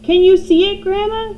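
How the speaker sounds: high, loud excited call; boy shouting. A narrator's reading. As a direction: call up to the roof. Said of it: "George shouted".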